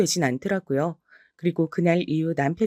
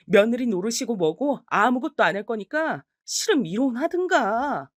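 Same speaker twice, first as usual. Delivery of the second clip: higher, fed-up declaration; defiant ultimatum; 4 semitones higher than usual. Acted. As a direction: throw down the ultimatum. Wife declares she quits.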